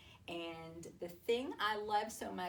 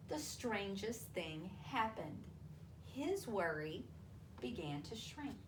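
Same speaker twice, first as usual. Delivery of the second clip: expressive picture-book storytelling with long pauses; reading to children. A narrator's reading. Teacher reading a worry story to children, storytelling voice.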